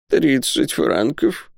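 high, very slow plaintive moan. A narrator's reading. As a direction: draw the sum out pitifully. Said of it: "раздался жалобный голос".

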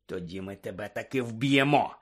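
restrained, menacing warning; growled threat. Acted. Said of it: "прогарчав Блек".

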